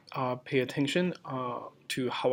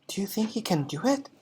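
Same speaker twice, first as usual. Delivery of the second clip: whispered; 7 semitones higher, faster than usual. Acted. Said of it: "she whispered to Lavender".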